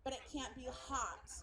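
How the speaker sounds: lightly voiced San Francisco food fusspot; hesitant, picky customer imitation; fussy city diner. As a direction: query it with mock-precious concern. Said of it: "somebody from the city would fuck that up".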